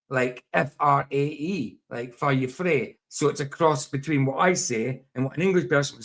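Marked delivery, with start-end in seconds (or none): 2.1-3.0 "far you frae" with an r in "frae"; Dundee pronunciation. Shown as a demonstration. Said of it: "somebody in Dundee would say".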